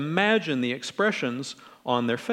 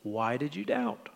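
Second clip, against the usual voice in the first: friendly; 6 semitones higher, 3 dB quieter, slower than usual. Acted. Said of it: "as if he was saying".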